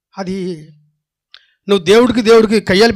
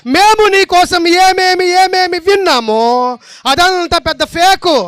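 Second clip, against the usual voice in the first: slow, drawn-out scoffing question; mock quote; 10 semitones higher, 4 dB louder, slower than usual. Preacher mocking the idea that God is fake, slow scoffing. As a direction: drag it out as if absurd. Mocking imagined Israel's words.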